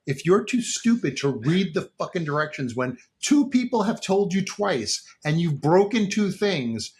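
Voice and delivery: fed-up clerk scolding a hopeless customer; imagined rant. Pretend. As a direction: lay into the customer, drawing it out. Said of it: "I was like".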